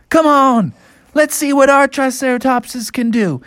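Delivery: high, urging call; rally the riders excitedly; eager bears. Acted. Bears behind Bubby urging their mounts, eager.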